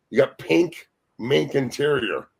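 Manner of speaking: double-check it in mock disbelief; retold incredulity. Retells asking again in disbelief.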